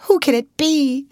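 high-pitched, surprised wondering; gasped question. A narrator's reading. Young woman wondering who is whistling nearby, gasped question. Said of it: "gasped Ruth".

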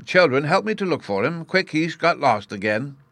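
a touch of panic in the professor; somewhat agitated call for help; mildly wild. A narrator's reading. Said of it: "he added wildly".

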